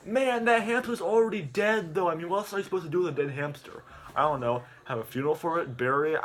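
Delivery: a lightly voiced hyped YouTuber; Hogan Paul impression. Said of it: "Hogan's like".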